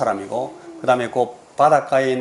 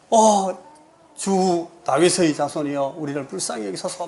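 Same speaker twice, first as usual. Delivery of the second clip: shouting after him; 6 semitones higher than usual. Retold or imitated. Canaanite woman shouting after Jesus abroad, a higher pleading cry. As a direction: start up high, then let the plea drop away. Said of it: "막 소리를 지르는".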